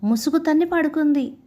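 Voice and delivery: animated, lilting storytelling voice; story narration. A narrator's reading. Narrator telling a Panchatantra fable of monkey and crocodile, expressive storytelling. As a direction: read the fable with rising and falling phrases.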